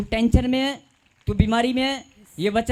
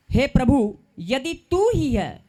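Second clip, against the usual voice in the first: slow recitation; 3 semitones higher, slower than usual. Shown as a demonstration. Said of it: "मेरे पीछे बोलो".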